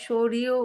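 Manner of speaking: "সৌরিও" with r replacing the d, sho-ri-o; alternative pronunciation. Shown as a demonstration. Host offering another reading of the name, "সৌরিও" with r for d. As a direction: say "সৌরিও" with a flapped r for the d. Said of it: "সৌরিও উচ্চারণ করা যায় ডিকে".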